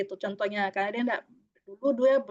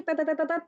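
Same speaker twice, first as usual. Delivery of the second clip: imitated stopwatch beep; 4 semitones higher than usual. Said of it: "sepuluh menit bunyi".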